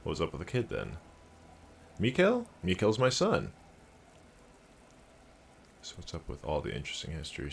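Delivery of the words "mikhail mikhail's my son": higher-pitched presenter voice; Trent Heitlstam. Acted. Trent explaining about his son, presenter voice. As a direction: swoop up on the name like a training-video host. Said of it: "I can do that voice".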